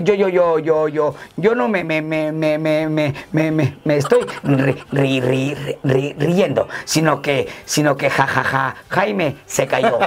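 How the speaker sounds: choppy mock stutter, dragging on the last words; lightly voiced stammering joke character; stuttering rider. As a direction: act a stutterer pushing each syllable out. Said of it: "el de en medio le dice".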